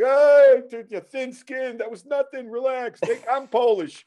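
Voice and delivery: high-pitched mock heckler; heckling crowd. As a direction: jeer after them from the audience. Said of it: "the crowd is heckling them".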